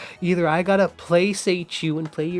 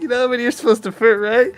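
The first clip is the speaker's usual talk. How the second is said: quoting the manager; 8 semitones higher, 8 dB louder, faster than usual. Retold or imitated. Manager scolding him.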